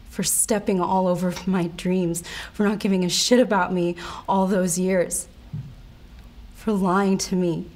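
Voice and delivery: controlled, mounting resentment; bitter accusation. Acted. Betrayed wife sentencing her cheating husband, bitterly accusing. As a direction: list his betrayals with understated fury.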